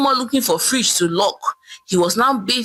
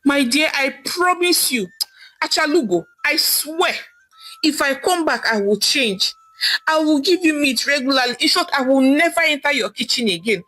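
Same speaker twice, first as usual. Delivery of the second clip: pleading promise; 5 semitones higher than usual. Acted. Husband promises to change, pleading.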